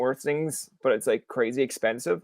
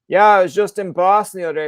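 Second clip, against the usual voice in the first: naive chirpy bragging; 5 semitones higher, 9 dB louder than usual. Acted. Plays himself chatting in New York.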